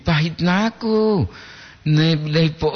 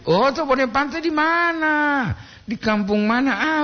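surprised; 11 semitones higher than usual. Real, not acted. Host surprised at caller's village.

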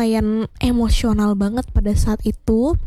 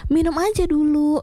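higher-pitched, mildly pushy imitation; pushy retort; 5 semitones higher than usual. Waitress urging customer to just drink it, mock pushy. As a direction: imitate someone insisting, pitched up. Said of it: "mbaknya juga nyolot".

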